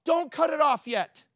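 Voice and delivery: pleading cry. Retold or imitated. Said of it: "He said".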